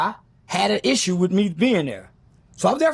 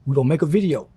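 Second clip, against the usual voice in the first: big dude's voice; 8 semitones lower than usual. Retold or imitated. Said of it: "He said".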